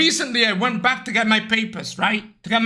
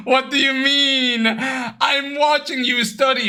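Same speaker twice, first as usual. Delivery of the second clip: laughing mock outrage; 3 semitones higher, slower than usual. Mock outrage at brother's claim, laughing.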